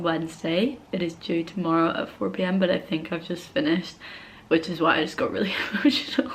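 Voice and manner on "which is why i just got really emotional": whispering through a little laugh; hushed confession of relief. Real, not acted. Vlogger whispering to viewers that she's nearly done. Late-night quiet update to camera.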